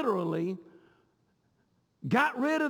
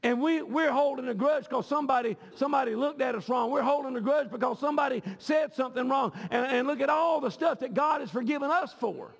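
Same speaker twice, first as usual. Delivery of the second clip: preaching; 3 semitones higher than usual. Acted. Preaching, rising to shouts.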